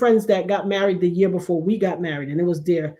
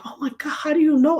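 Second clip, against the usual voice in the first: mock tearful; 7 semitones higher than usual. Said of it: "she just started crying".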